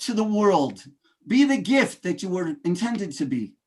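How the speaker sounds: rousing speaker, building to big peaks on key phrases; motivational speech. Acted. Speaker rallying ladies and gentlemen, rousing motivational delivery. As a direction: preach it to the room like a keynote.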